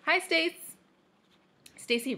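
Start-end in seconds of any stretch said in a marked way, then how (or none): 0.1-0.8 high, louder hello to a friend; bright-pitched call of welcome; excited greeting. Acted. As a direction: greet a friend with eager relief.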